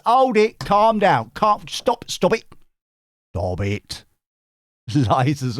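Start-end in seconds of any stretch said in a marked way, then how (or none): 0.1-4.0 mock calming. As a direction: shush the eager crowd, playfully. Calming eager viewers.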